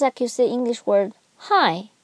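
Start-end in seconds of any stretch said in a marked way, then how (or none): 1.4-1.9 "hi" going down in pitch; falling tone. Shown as a demonstration. Teacher likening fourth tone to "hi", falling. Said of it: "You go down".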